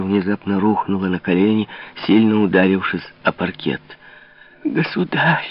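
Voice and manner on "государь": high pleading call; pleading cry. A narrator's reading. Louise, on her knees, pleading with the king. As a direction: plead with him. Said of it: "молила она".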